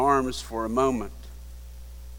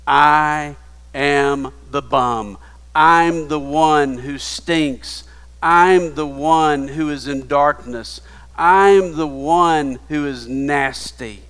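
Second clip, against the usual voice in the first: loud confession; 6 dB louder than usual. Pretend. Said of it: "until you're willing to say".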